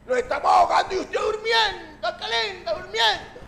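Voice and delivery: mock ñero street talk; Colombian ñero slang accent. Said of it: "El lenguaje del ñero".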